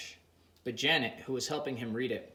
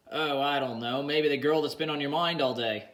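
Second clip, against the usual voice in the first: playful; 2 semitones higher, 5 dB louder than usual. Acted. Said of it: "with a playful tone".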